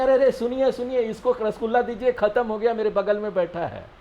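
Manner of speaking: high, fast mock call across the hall; calling out from afar. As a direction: hail the server from a distance, playfully. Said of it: "दूर से चिल्ला के बुलाएंगे". (दूर से पुकारते हुए, हल्का नाटकीय)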